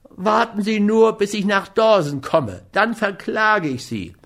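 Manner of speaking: a lightly voiced sulky threat; threatening. A narrator's reading. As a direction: threaten him as you back off. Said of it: "drohte Schmidt".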